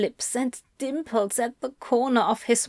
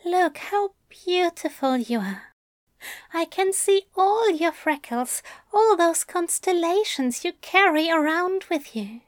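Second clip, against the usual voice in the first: higher, tender lover's voice; adoring murmur; 7 semitones higher than usual. A narrator's reading. Aziraphale admires Crowley's freckles, adoring murmur. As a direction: marvel fondly, pitched up and unforced. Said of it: "Aziraphale murmurs against Crowley's throat".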